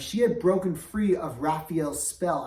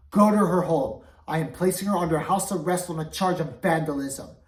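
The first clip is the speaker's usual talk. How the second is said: stern order; 7 dB louder than usual. Acted. King orders arrest.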